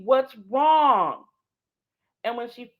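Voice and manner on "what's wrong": urgent plea. Retold or imitated. Urging crying grandma.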